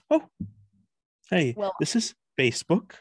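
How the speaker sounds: mock robotic tech-founder voice. Showing how he talked in an android audition: Mark Zuckerberg impression. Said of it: "you know how he kinda talks like this?".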